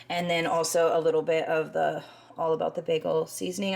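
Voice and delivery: breathless, talking between breaths; short of breath while talking. Real, not acted. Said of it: "I'm out of breath".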